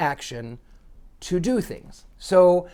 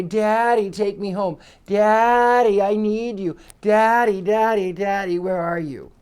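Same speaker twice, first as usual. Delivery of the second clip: pleading devil puppet; 3 semitones higher, 4 dB louder than usual. Retold or imitated. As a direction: whine Daddy like a lost child begging to be taken home. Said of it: "and he's going to say".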